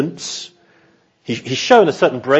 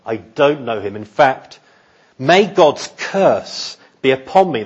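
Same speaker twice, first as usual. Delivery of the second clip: vehement oath. Acted. Peter swears to bystanders on his life, vehement and deliberate. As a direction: swear it deliberately, rising on the curse. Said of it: "his most vehement and vigorous".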